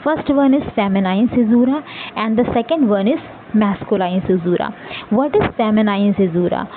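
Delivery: very slow, each word spaced out for note-taking; slow dictation. Acted. Teacher dictating definitions to students, very slow. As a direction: read it out word by word so students can write.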